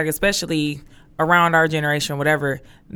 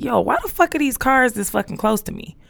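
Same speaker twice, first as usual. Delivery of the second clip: mock panic; 7 semitones higher than usual. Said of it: "I was freaking out".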